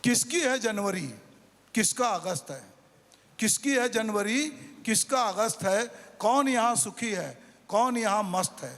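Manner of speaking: rhythmic recital with falling line ends; stage recital of a satirical poem; poem recitation. Acted. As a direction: recite it with a steady beat. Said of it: "नागार्जुन की एक कविता मैं भी आपको सुनाता हूँ".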